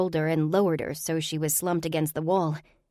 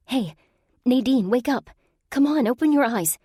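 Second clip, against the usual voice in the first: raised, higher voice calling her awake; calling to wake her; 7 semitones higher, 5 dB louder than usual. Acted. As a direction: call out to rouse a groggy friend. Waking a drowsy friend.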